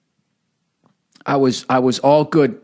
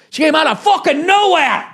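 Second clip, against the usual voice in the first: much higher and louder, an exclaimed shout on nowhere; incredulous outburst; 13 semitones higher, 3 dB louder than usual. Retold or imitated. Comedian telling the host about the ambush, shouting in mock outrage. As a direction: blurt it out like the shock still stings.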